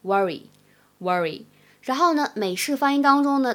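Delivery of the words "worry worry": British "worry", short small-mouthed uh vowel, no r-colouring; British pronunciation. Shown as a demonstration. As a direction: say "worry" slowly in a British accent, low falling pitch. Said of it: "在英式发音当中呢，读的是小口型的啊". (英式发音示范worry，小口型短元音)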